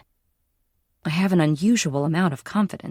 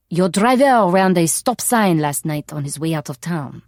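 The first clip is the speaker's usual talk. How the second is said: stern French shopkeeper; 5 dB louder than usual. Acted. Stern cafe owner scolding narrator.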